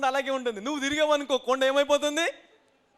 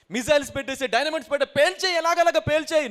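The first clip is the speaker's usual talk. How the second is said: mock loud demand; 4 semitones higher, 4 dB louder than usual. Mocking human solution, loud.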